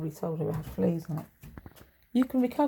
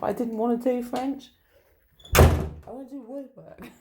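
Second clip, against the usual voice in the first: put-on louder and higher, like a sulky child; petulant whine; 4 semitones higher, 6 dB louder than usual. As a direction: whine it like a kid refusing homework.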